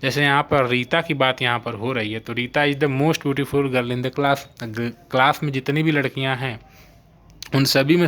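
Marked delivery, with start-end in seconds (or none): 2.3-4.5 slow example sentence. Shown as a demonstration. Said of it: "slow example sentence".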